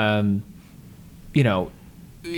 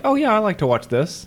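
excited fan; 10 semitones higher than usual. Retold or imitated. Mock sports fan quoted.

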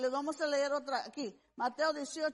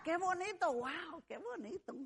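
softly savoring; 3 semitones higher, 4 dB quieter than usual. Acted. Savoring how nice forgiveness feels.

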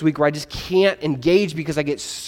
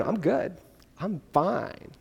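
hiding anger; 10 dB quieter, slower than usual. Retold or imitated. Bottled-up friend answers.

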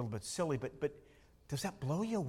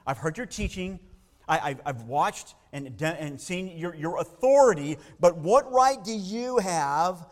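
indignant religious leader; 7 dB louder than usual. Retold or imitated. Preacher voicing a scribe confronting Jesus, indignant and building loud. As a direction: challenge Jesus, rising to an outraged demand.

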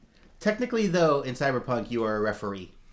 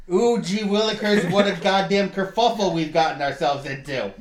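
sarcastic; 4 semitones higher, 3 dB louder than usual. Pretend. GM hams up fake coincidence.

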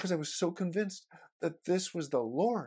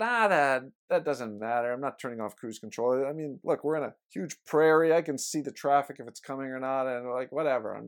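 louder, dismissive retort to his wife; defiant brush-off; 6 dB louder than usual. Retold or imitated. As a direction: brush her off loudly, stubborn. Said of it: "And I've said".

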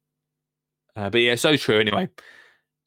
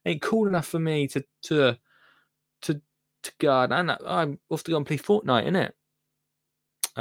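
mocking teen impression; 4 semitones higher than usual. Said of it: "That's my impression of a teenager".

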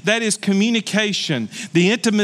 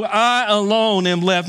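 slow mock whine of I alone am left; lightly mocked self-pity; mocking quote; slower than usual. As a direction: parrot his complaint back. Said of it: "Why would you say that".

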